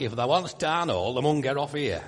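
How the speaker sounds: lightly put-on broad Yorkshire bus announcement; a hint of a local Yorkshire recorded announcer; Yorkshire accent. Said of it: "this accent on the bus".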